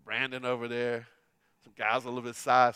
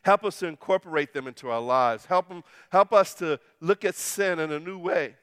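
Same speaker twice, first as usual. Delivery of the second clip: prayer; 3 dB louder than usual. Acted. Closing prayer.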